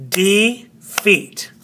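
defeat split, FEAT accented; stress on second syllable. Shown as a demonstration. Teacher sounding out the word, second syllable stressed. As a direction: separate de, then stress FEAT. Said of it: "but feet is over here on".

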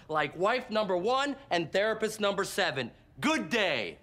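emphatic, indignant speech to the whole room; exasperated rant. Acted. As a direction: hammer the key words, fed up and scornful. Rant at wife and therapist, storming out.

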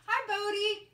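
upbeat hello to a nervous dog; happy voice. Real, not acted. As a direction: greet the dog with a lift of happiness. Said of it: "So we're gonna talk in a really happy voice".

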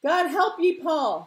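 high, loud, urgent call; carrying shout. Acted. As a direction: make the words carry over the water. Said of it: "his words carried out over the water".

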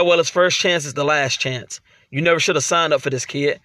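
low, subdued dialogue read; low-voiced character taunts; wrestlers trading taunts. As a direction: read rival wrestlers' trash talk low and understated. Reads game wrestlers' dialogue.

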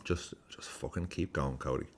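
soft, unvoiced urging; whispered encouragement. Fan urging the player on, whispered keep going. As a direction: whisper it like a private prayer. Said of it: "whispered encouragement".

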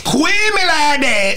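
high, drawn-out garbled rap speak; slowly mock the mangled diction; mangled hip-hop slur. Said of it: "It's not English".

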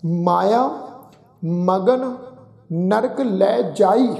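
ਮਗਨ kept as one word magan, words drawn out slowly; slow scripture reading keeping ਮਗਨ joined; slow recitation. Shown as a demonstration. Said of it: "ਪਾਠ ਉਚਾਰਨ ਕਰਦੇ ਹਾਂ ਜੀ".

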